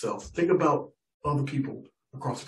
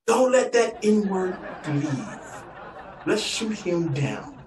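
slow, higher mock menace; ranchers plotting; 5 semitones higher, much slower than usual. Ranchers muttering to each other, slow mock menace. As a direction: drag out the threat like a villain. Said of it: "I hear them debating amongst themselves".

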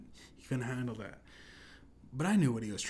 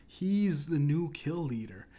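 louder, slower announcer call; quoting Drake; 4 semitones higher, 6 dB louder, slower than usual. Retold or imitated. Drake points at the samurai, slow loud callout. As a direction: call out the target like a hype man. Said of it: "quoting Drake".

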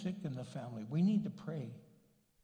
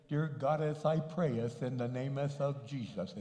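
mock King James prayer; 3 semitones lower than usual. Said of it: "you don't have to pray like King James".

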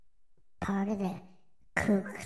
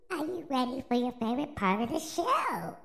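higher, hammed-up kids host; overbright kids party host; 6 semitones higher than usual. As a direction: pump up the crowd once more. Repeats the call louder in spirit.

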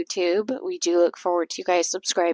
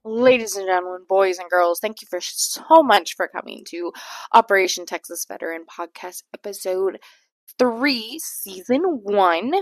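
ringmaster. Shown as a demonstration. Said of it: "You're gonna do it, you gotta do it right".

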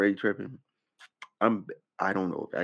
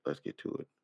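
whispered, much softer; 11 dB quieter than usual. Real, not acted. Whispering to himself as he starts the video. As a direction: breathe it to yourself. Repeats it under his breath.

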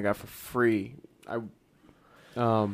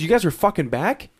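loud, higher disbelieving shout; incredulous yell; 7 semitones higher, 5 dB louder than usual. Retold or imitated. Boss yelling at the security guards, loud disbelief. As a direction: yell it like you can't believe they're back. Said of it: "He goes".

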